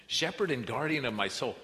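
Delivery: the verse proclaimed boldly from the pulpit. Real, not acted. Repeating the verse with force.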